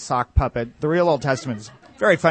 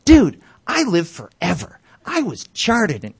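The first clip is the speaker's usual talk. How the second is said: much higher, louder jeering hoot; mocking taunt; 8 semitones higher, 7 dB louder than usual. Corporate neighbor mocking the comedian's humanity, high loud jeer. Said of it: "And he's like".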